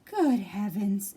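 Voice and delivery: slow startled good heavens; slow surprised exclamation; exclaiming. Acted. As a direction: gasp it out in shock. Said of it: "exclaimed Bob".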